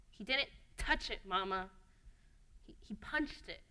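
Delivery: small, hushed, halting plea; meek protest. Acted. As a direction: protest softly to a scolding mama. Child meekly protesting to yelling mama.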